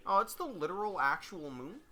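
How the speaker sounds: a hint of Kermit, matter-of-fact question. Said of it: "I gotta do the Kermit voice".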